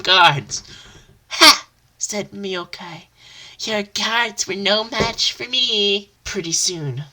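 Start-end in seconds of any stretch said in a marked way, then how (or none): 1.3-1.7 loud high triumphant laugh. Acted. Hero triumphs. 3.6-6.1 boastful hero. Acted.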